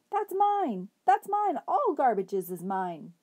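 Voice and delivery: high, loud frantic yell; shouted. A narrator's reading. Ernest yelling after the thieving dog, high frantic shout. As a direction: scream it like a madman losing his treasure. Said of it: "Ernest shouted".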